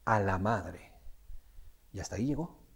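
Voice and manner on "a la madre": blurting quote. Retold or imitated. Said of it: "solamente dice".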